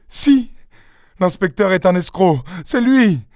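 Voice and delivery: très aigu, affolé; dénonce l'escroc; accusation affolée. Acted. Mari accuse. (mari affolé qui dénonce le faux inspecteur)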